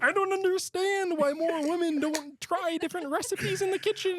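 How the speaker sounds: put-on very high, airy French accent; high French accent imitating Julia Child. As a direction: play a dreamy French chef. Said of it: "she has, like, a French accent".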